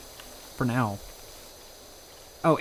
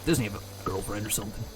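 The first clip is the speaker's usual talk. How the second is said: lower, put-on princess voice; a lightly put-on Princess Peach; 3 semitones lower than usual. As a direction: play the princess as a put-upon girlfriend. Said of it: "if I have to voice Princess Peach".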